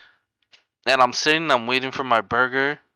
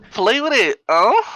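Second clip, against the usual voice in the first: high, loud taunt; brash higher taunting call; mock loud street woman; 9 semitones higher, 4 dB louder, slower than usual. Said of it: "She goes".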